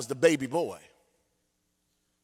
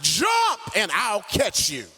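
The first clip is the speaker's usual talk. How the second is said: urgent plea; 6 semitones higher than usual. Retold or imitated. Father's final plea.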